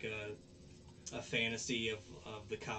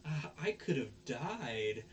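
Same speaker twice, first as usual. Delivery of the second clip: slow, somewhat higher, indignant; girl telling Onizuka off, slow and raised; mock scolding; 4 semitones higher, 4 dB louder, slower than usual. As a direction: scold him with put-on outrage.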